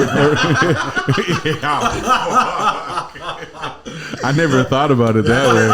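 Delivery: breaking up mid-sentence; laughing. Real, not acted. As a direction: laughs at the new idea and can barely get the words out. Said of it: "That's a good way to end".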